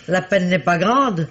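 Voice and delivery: slow, laughing through the words. Acted. Landlady laughing off the commissaire's thanks. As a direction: chuckle the line out, slowly.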